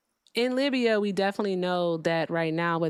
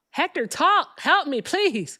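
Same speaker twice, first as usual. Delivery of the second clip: overlapping cries; 9 semitones higher, 5 dB louder, slower than usual. Pretend. Pleading with Hector for help.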